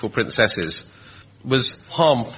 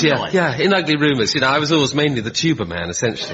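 imitating Blair; 4 semitones higher than usual. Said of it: "He says".

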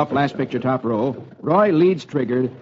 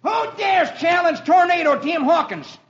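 put-on high, brash kid bandit voice; young boy shouting threats; boy outlaw shouting; 12 semitones higher than usual. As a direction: play a boy pretending to be a fierce outlaw. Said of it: "shouts down".

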